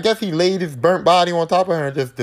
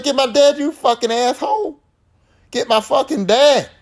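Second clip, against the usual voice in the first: desperate scream; 8 semitones higher than usual. Acted. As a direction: scream it out the window at him. Nancy screaming out the window.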